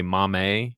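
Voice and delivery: put-on little-kid "Mame" for mommy, ending in an AY; "Mame" drawn into mah-may; childhood mispronunciation. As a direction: say "Mame" as two beats, mom-may. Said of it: "I would say "Mame".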